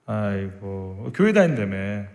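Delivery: low, slow, drawn-out sighing jibe; mocking pity. Mocker needling a churchgoer, scornful mock pity. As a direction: sigh it out with low contempt. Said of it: "조롱당했으니까".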